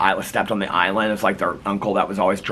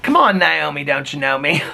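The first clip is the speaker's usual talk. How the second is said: higher-pitched mock plea; retold coaxing; 3 semitones higher than usual. Friends asking Naomi to buy liquor, retold coaxing. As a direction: re-enact the old coaxing line, pitched up. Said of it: "We would always say when we wanted her".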